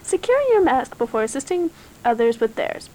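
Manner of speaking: flight attendant. Pretend. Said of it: "stewardess voice".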